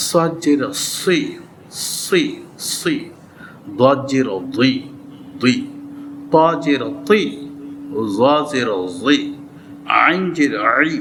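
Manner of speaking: সি, দুই, তি, জি heavy, each from its proper articulation point; careful articulation. Shown as a demonstration. Teacher drilling students on the letters' articulation points, careful articulation. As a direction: sound out সি, দুই, আই, কই deliberately from mouth and throat. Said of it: "চেষ্টা করে হরফগুলো উচ্চারণ করে নেই".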